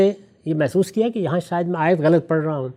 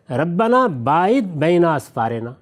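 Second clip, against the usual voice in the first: slow, measured recitation of the verse; Quranic recitation; slower than usual. Shown as a demonstration. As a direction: recite the verse slowly, word by word. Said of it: "سورہ سبا کی ایک آیت ہے". (آہستہ تلاوت کے انداز میں)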